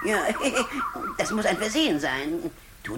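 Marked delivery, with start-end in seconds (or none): 1.2-2.5 sniggering. Acted. Vizier sniggering at his trick.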